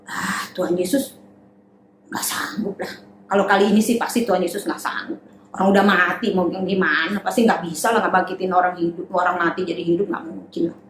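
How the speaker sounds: low, muttered scoffing; lightly voiced doubter sneering at Jesus; mocking doubter. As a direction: scoff under your breath. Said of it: "Mereka mentertawakan".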